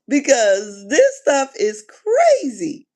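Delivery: slow, whispered fake sob; mock crying. Vlogger pretending to cry over the show, slow whispered sob.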